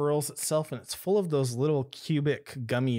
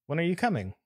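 raised, lightly voiced character; a touch higher, asking eagerly; Milo's voice; 6 semitones higher, much faster than usual. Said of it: "she says in Milo's voice".

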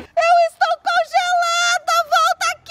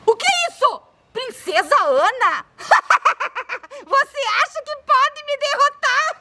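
voz de bruxa; 3 semitones lower than usual. Acted. Bruxa desafia a princesa.

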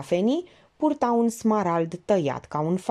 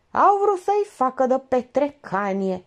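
moderately raised, higher cry; sudden outburst; 6 semitones higher, 3 dB louder than usual. A narrator's reading. Georgeta loses patience with bored Elena, sudden outburst. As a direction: burst out with it, startlingly. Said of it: "strigând neașteptat de tare".

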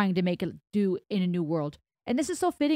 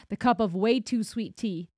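amused repeat; 2 semitones higher than usual. Real, not acted. Repeating the poem line to viewers, amused chuckle. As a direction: repeat it with a little laugh.

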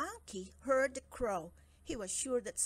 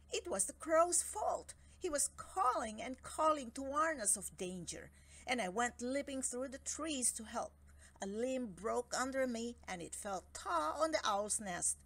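nervous monkey; 3 semitones higher than usual. Acted. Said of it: "He came before him nervously".

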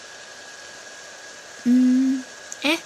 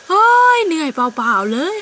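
scoffing; 3 semitones higher, 4 dB louder, slower than usual. Acted. Scoffing rival.

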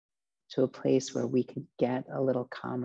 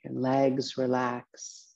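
guided meditation. Acted. Teacher relaxing listeners from feet upward, guided meditation voice. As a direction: ease each body part into rest, phrase by phrase.

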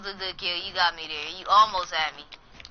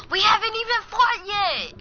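high, indignant whine; high complaining cry; whiny protest; 11 semitones higher, 3 dB louder than usual. Real, not acted. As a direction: protest it in a high-pitched wail. Protesting friend's early GG.

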